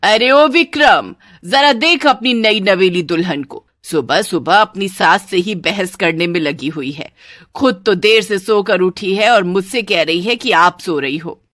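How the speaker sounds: loud, indignant complaint; yelling mother-in-law. Acted. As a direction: call out to the son and rant about his bride. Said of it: "वो जोर जोर से चिल्लाने लगती है". (ज़ोर से चिल्लाती सास)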